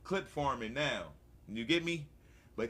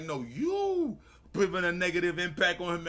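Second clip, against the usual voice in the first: worked-up comeback; 2 semitones higher, 5 dB louder than usual. Retold or imitated. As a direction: fire back indignantly, hammed up. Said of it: "really about to turn up".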